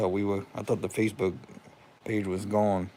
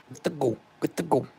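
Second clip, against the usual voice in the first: rising higher with each joyful repeat; excited repeat; 6 semitones higher than usual. Real, not acted. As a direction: celebrate it, climbing up. Celebrating page reinstated.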